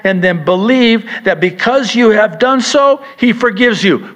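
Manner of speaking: fervent rising sermon delivery; preaching. Acted. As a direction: preach it with building fire. Preaching at full force.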